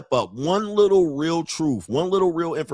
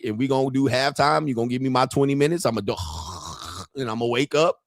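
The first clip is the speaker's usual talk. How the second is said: normal talking voice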